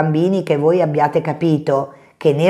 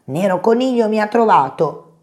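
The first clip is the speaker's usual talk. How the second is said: dismayed; 4 semitones higher than usual. Acted. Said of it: "pensò Coniglio".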